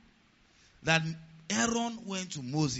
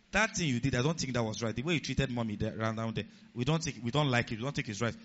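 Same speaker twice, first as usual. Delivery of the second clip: put-on lower, restrained voice of a grown child; measured respectful objection; 5 semitones lower than usual. Grown child correcting daddy respectfully, measured objection. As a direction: put the complaint to a parent calmly. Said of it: "Children can talk like this".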